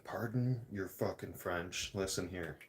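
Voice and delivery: whispered aside. Real, not acted. Aside to the camera about his cursing, whispered. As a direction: drop to a breathy whisper for the apology.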